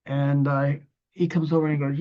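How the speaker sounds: ordinary delivery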